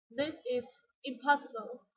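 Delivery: "impossible" set apart and stressed; shocked emphasis on "impossible". Shown as a demonstration. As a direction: lean on the word "impossible". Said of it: "put stress on the word impossible".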